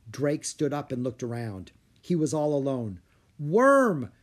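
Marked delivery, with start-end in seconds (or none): 3.4-4.1 high, loud call for someone missing. A narrator's reading. Drake all alone searching for his dragon, calling out. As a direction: shout the name across a field. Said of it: "Drake called out".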